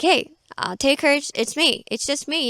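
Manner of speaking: a hint of a laid-back friend reassuring; casual Jesus. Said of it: "I'm talking like that".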